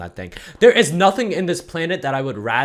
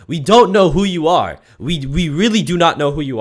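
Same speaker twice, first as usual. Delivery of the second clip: louder, falling on don't; louder exasperated; 3 semitones higher, 6 dB louder than usual. Acted. Telling the bank guy off, louder and more fed up. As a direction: hammer don't down hard. Mock outrage at the speaker.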